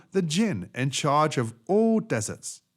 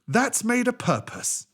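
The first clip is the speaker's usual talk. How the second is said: djinn warning; 11 semitones higher than usual. Acted. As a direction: warn the camel sternly.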